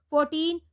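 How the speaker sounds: put-on "Fourteen" stressed on TEEN; careful teacher's "Fourteen", weight on TEEN; second-syllable stress. Shown as a demonstration. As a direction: say "Fourteen" as four-TEEN, long final syllable. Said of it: "second syllable".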